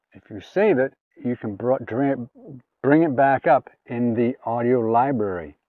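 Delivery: normal talking voice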